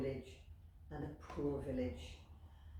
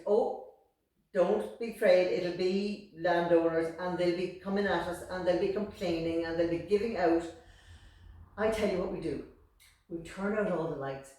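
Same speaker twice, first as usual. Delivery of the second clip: scoffing mother; 9 dB louder than usual. Acted. Mother loudly reassuring, then planning.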